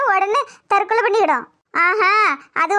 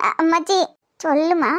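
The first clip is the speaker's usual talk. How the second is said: gentle grandmother; 3 semitones lower than usual. Acted. Grandmother voice, reassuring. (மென்மையான பாட்டி குரல், தாழ்ந்த தொனியில்)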